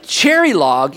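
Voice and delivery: puzzled disbelief. Acted. Listener hears of the unknown town, puzzled. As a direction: echo the unknown place doubtfully. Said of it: "You went".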